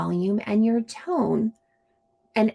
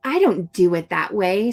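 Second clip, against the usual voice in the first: put-on insist, like a bossy kid; stubborn child; bossy refusal. Shown as a demonstration. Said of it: "says the bossy friend".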